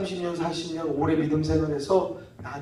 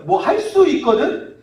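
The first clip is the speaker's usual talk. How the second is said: slow, high, loud echo of disbelief; incredulous challenge; 9 semitones higher, 6 dB louder, slower than usual. Acted. Jesus repeating the father's doubt back, incredulous challenge. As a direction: throw the words back indignantly.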